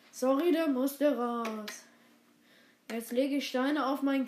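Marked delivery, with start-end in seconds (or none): 0.1-1.8 burp talking slowly; fizzy drink burp. Shown as a demonstration. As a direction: speak through a slow burp. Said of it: "Ich mach noch mal".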